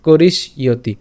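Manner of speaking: "করিস ইয়তি" run together, sibilant into y; linked pronunciation. Shown as a demonstration. Teacher putting the parts together, linked "করিস ইয়তি". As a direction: link "করিস" to "ইয়তি" with a falling end. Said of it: "এটাও একসাথে উচ্চারণ করব".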